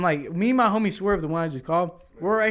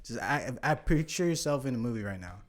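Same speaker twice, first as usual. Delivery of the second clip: acting calm; 3 semitones lower, 4 dB quieter than usual. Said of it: "So I had to get in character".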